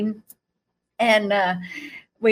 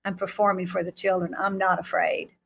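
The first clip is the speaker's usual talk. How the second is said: softer, quick whisper-like aside; soft confiding aside; 3 semitones lower, 5 dB quieter than usual. Retold or imitated. Jesus confiding to her mid-act, softer and quick. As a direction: let him confide it quietly. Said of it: "he's like".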